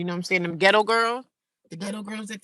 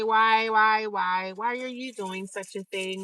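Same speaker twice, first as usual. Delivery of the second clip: mock troll whine; slower than usual. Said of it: "The trolls will say".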